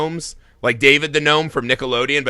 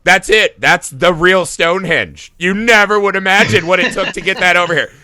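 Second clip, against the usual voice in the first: mock villain boast; 4 semitones higher, 4 dB louder than usual. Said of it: "he just goes".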